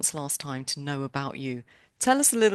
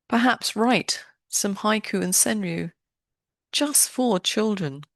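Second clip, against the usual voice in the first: polished, lively intro read with deliberate phrasing; podcast intro; 6 dB louder than usual. Real, not acted. Host introduces a guest poet to listeners, podcast intro. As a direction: welcome listeners in with measured showmanship.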